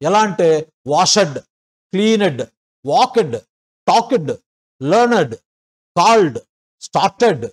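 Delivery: imitating the learner, every -ed said as a full syllable; వాషెడ్ with a separate rising "ed" syllable at the end; mock student reading; weird -ed endings. Shown as a demonstration.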